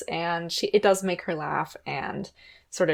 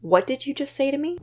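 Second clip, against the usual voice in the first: shocked; 7 semitones higher than usual. Retold or imitated. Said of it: "Lily is completely shocked".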